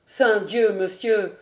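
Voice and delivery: fervent exclamation. A narrator's reading. Cousin pledging himself to the old nobleman, fervent exclamation. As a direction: exclaim it with eager gallantry. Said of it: "s'écria-t-il".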